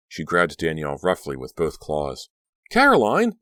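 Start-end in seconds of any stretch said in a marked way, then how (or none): 2.7-3.4 very high, loud shriek. A narrator's reading. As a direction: scream her name in terror. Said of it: "Danielle shrieked".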